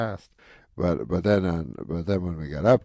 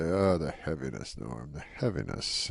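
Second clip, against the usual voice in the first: quoting Rodney; 3 dB quieter than usual. Retold or imitated. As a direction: mimic Rodney sighing "Oh, the heaviness". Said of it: "that's what I always say".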